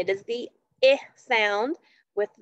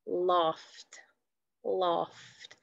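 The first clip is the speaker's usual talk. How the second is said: whispering; 3 semitones lower, 6 dB quieter than usual. Shown as a demonstration. Teacher whispering the word.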